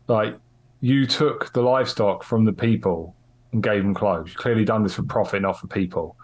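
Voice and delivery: a light Cockney tough-guy interrogation; mild Cockney accent pressing a suspect. Acted. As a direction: lean on him in a mild Cockney. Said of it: "Russ's Cockney accent".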